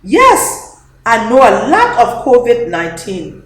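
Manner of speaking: put-on high eager little-girl yes; eager child. Dede answering Papa in an eager child voice. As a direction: chirp it with pride. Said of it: "Dede says".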